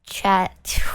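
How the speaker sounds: breathy whispered aside to chat. Real, not acted. Streamer whispering a confidence to chat. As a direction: let it drop to a secret whisper.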